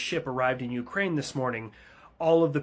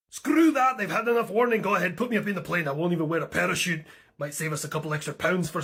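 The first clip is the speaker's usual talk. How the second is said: much higher, louder, fast; eager shout; 5 semitones higher, 5 dB louder than usual. Acted. Pilot loudly insists on going up to fight. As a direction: burst out ready to fly.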